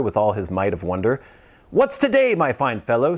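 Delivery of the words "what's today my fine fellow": calling down. Acted. Scrooge calling from his window to a boy below. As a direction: call down to the street. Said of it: "said Scrooge".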